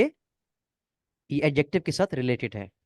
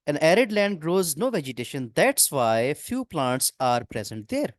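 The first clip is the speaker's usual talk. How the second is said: slow sentence read; much slower than usual. Shown as a demonstration. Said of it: "reading exam sentence aloud".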